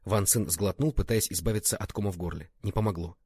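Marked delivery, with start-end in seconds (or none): none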